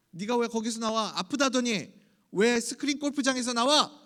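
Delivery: mock confrontation. Churchgoer confronting a supposedly sick absentee, mock accusing. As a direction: play at catching someone out, pushing harder.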